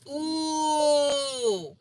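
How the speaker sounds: long, high drawn-out "ooh"; mock-shocked ooh. Speaker mocks viewers offended by a word, mock-shocked ooh. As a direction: wail a scandalised "ooh" in mockery.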